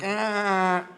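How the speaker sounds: high, strained "ah"; desperate groan. Acted. Passenger needing to pee in a helicopter, high desperate groan.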